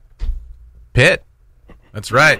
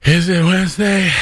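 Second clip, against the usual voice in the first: unsure rising question; uptalk; 6 semitones higher than usual. Real, not acted. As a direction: ask it like you doubt the day. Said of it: "I can hear the, the uncertainty in your voice".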